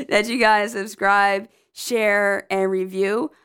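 real amusement after a mishap; picking up again through a laugh. Real, not acted. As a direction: suppress a laugh while carrying on. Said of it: "that's why I'm laughing".

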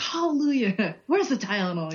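high, laughing mock outburst; a hint of an unhinged rant; imitating Clark's rant. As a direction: read it off like the crazed dad. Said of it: "I just read it off like he did".

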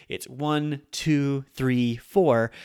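one, two, three, four counted out in rising steps; each beat counted separately; counting beats. Shown as a demonstration. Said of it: "pronounced in four mora".

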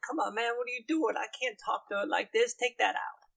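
high, quick dude-bro complaint; put-upon bro character; exasperated bro boss. Acted. Guildmaster orders the gag removed.

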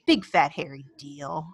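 low-pitched dismissive aside; unimpressed Garfield. Retold or imitated. Acting Garfield's sarcastic replies.

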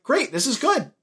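a hint of a thrilled cop father; mock excited. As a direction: act out the dad jumping at the tip. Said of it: "he's, like, all excited".

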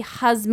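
"Jazmine" said as "hahz-MEE"; Spanish pronunciation. Shown as a demonstration. Explaining the silent J, "Jazmine" pronounced "hahz-meen". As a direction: say "Jazmine" with h in place of J. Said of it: "you wouldn't pronounce the J".

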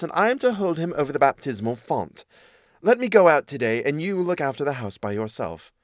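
lightly voiced cat telling a tale; a hint of a persuasive storybook cat; scheming cat. Cat inventing an excuse to the mouse, lightly voiced and persuasive.

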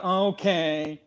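imitating a pouty, reluctant okay; sad pout. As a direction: softly sulk it, putting on a pout. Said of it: "I did the sad pout".

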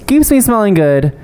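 very slow drawn-out brand name; ad read. Acted. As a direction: savor the brand name slowly. Ad read, stretched.

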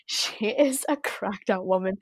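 soft unvoiced gossip; whisper. Real, not acted. Whispering gossip about Lindsay to her friend. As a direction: whisper it like a secret.

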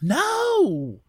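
light Louisiana drawl for a sleepy hypnotized woman; a hint of Louisiana in a dazed recollection; Louisiana accent. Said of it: "read her in a Louisiana accent".

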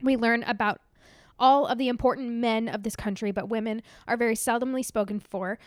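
tearful letter read aloud; crying while reading. Real, not acted. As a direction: read through real tears. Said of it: "she's already sobbing".

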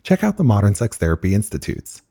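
brisk, even sponsor read. Acted. Host reading sponsor spots to listeners, ad read. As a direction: sell it like a podcast ad.

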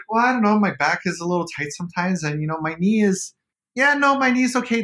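high, breezy imitation of his younger self; mock-casual answer to his partner's question; retold self, casual. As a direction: shrug it off like it's nothing, pitched high. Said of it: "And I'm like".

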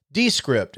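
"Descript" said DE-script, first syllable stressed. Shown as a demonstration. Host showing how the company says "Descript", first syllable stressed. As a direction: say "Descript" with the weight on DE. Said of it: "which is how they pronounce it".

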